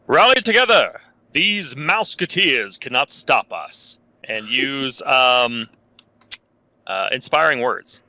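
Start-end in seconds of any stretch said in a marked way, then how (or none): 0.1-4.0 mock booming call to the party, pitched higher on the opening; rally the troops with a battle shout; booming rally cry. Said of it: "call out in my booming voice".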